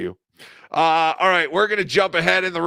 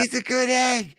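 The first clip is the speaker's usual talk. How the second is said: high mock-Irish voice; put-on Irish accent; 8 semitones higher than usual. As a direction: pipe it up in a fake Irish accent. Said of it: "they were from Ireland".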